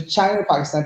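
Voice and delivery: quick "China or Pakistan", run together with a linking R; "China or Pakistan" as one fast linked phrase; inclusive R. Shown as a demonstration. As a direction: say "China or Pakistan" briskly, "and" shrunk to an R sound. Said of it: "inclusive R".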